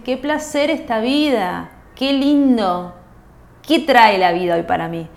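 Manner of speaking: slow, savoring, dreamy delight; blissful morning greeting. Retold or imitated. A woman greeting her new day, slow and savoring. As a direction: stretch out each word as if waking happy. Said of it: "Qué hermoso es levantarse y decir".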